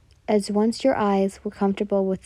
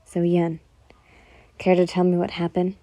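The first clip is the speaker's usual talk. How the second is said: monotone voice. Acted. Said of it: "in his usual monotone voice".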